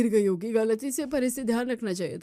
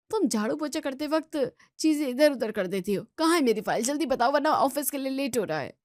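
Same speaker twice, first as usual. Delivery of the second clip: angry yelling; 4 semitones higher, 3 dB louder than usual. Acted. Husband yelling over lost file.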